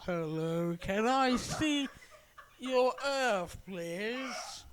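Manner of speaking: mock alien, slow and prim; polite alien. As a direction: play a politely curious alien visitor. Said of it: "They're like".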